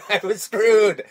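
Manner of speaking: slow, loud Scottish brogue; Scottish accent. Retold or imitated. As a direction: drag it out like a grumbling Scot. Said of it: "why did you turn Scottish?".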